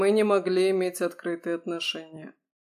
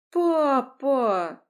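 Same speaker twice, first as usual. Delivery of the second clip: loud, high, pained "Papa"; protesting cry; 7 semitones higher, 7 dB louder than usual. Acted. Daughter protests father's pushing.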